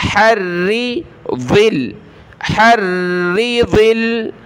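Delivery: हर्री दिल with a full, heavy dad. Shown as a demonstration. Teacher models the heavy dad, slow. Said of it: "ज़ाद को मोटा पढ़ें।".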